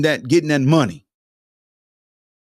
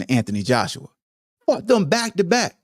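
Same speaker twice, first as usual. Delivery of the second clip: ordinary delivery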